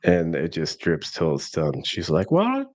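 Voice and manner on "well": imitating nurse.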